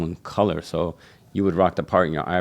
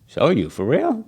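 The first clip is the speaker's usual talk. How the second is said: much higher, louder disbelief; incredulous; 9 semitones higher, 4 dB louder than usual. Retold or imitated. Young barber dared to show skills, higher incredulous question. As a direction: act amazed they'd ask. He's challenged to prove it.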